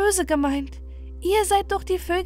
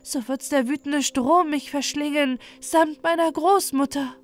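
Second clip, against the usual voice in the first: mild sadness in a higher princess voice; sad voice; 5 semitones higher than usual. Acted. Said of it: "antwortete dieses mit trauriger Stimme". (leicht traurige, höhere Stimme)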